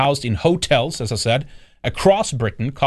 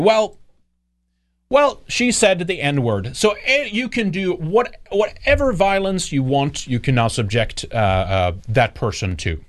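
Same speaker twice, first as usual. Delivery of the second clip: higher, slow mocking drawl at the start; mock argument voice; 5 semitones higher than usual. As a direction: parody the excuse with a sneer.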